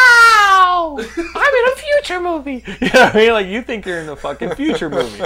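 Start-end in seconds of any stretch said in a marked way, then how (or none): 0.1-2.6 high, loud starry-eyed gasp; small-town guy gawking at Manhattan, awestruck; mock awe. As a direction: gush like a wide-eyed kid seeing a future city.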